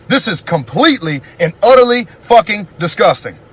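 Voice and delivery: real fury at the killings; angry rant. Real, not acted. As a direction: let the anger build as you list them. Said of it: "my blood is boiling".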